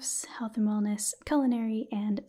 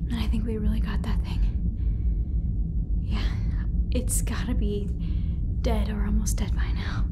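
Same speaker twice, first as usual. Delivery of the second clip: louder spoken roleplay, giving orders; sci-fi crew member; 7 dB louder, faster than usual. Acted. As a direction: call out commands to the ship computer, louder. Sci-fi roleplay after escaping alien.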